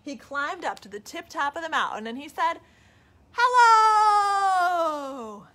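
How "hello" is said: high, loud shout. Acted. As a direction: call out from the mountain top. Bear calling from mountain.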